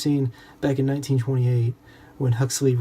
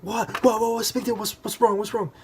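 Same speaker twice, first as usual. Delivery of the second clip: mock-puzzled mom; 9 semitones higher than usual. Mom answers daughter's call.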